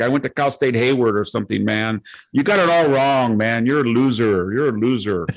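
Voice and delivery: lightly imitated Valley Girl accent; mock Valley Girl accent with stretched word endings. Visitor insulting her host, imitated Valley Girl accent. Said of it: "this Valley Girl accent".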